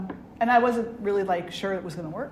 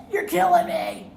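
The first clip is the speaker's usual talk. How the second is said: high, loud mock-dying protest; hammed-up child's complaint; dramatic little kid; 9 semitones higher, 8 dB louder than usual. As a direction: wail it like a kid playing at choking. Acting out son choking on smoke.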